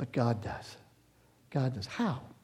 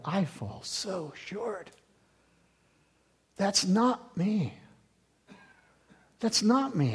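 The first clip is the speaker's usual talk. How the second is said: slow, hushed admission of falling short; humbled confession; 6 dB quieter, much slower than usual. Retold or imitated. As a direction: confess it slowly and softly, with long pauses. Retells his dejected reaction to verses.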